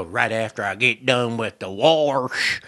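slow, exaggerated redneck drawl; teasing country redneck drawl; teasing redneck accent. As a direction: stretch it out in a redneck accent to tease. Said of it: "I would tease her".

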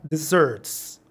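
Desserts said slowly with falling tune; model word. Shown as a demonstration. Teacher models Desserts for students, slow and clear. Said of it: "la vamos a entonar".

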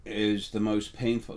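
words catching, slowed and held back with grief; choking up talking about being away from his lady; choked up. Real, not acted. Emotional, slowed and halting while missing Lily. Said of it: "having a moment".

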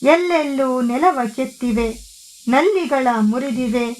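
measured, unhurried poetry reading with pauses between lines; poem recitation. Acted. Host reads a Kannada poem to her viewers, measured recital.

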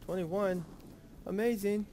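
high, loud "Amazing"; 1 delighted. Real, not acted. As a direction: squeal it out with delight. Delighted at the bonus levels.

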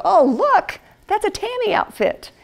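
a light mock squeal over clothes; wife spotting an outfit, mildly excited; gushing delight. Seeing outfit at mall.

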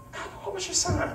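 mock flirt question. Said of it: "You single?".

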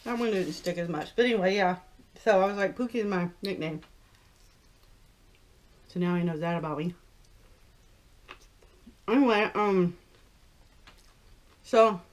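talking while eating chicken; chewing food. Real, not acted. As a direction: mouth partly full. Seen 1: holds wing, bites it at 1.6-2.2, mouth working while talking.

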